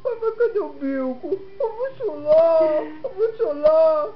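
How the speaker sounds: lightly voiced whimpering baby; mock crying baby talk. Parent speaking for a pouting baby, mock-tearful. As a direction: pretend you are about to cry, babyish.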